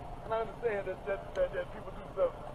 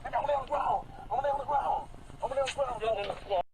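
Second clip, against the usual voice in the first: distressed; 2 semitones higher, slower than usual. Real, not acted. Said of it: "he's clearly already quite distressed".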